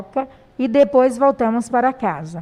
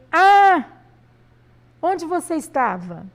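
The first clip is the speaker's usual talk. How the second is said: mock surprise on the Ah, let the question drop; surprised exclamation; 3 semitones higher than usual. Shown as a demonstration. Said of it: "Após interjeições também".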